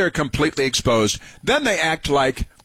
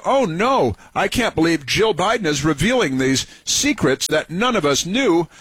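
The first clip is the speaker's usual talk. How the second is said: mock surprise; 4 semitones higher than usual. Sarcastic fake shock at revelation.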